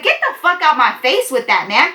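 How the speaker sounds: high, heated and loud; angry shove-off. Retold or imitated. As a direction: push him away with the words. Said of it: "I'm being loud as fuck".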